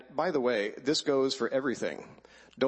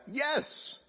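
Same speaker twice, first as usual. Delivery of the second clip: joyful shout. Retold or imitated. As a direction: shout it back gleefully. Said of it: "my response now is to shout back".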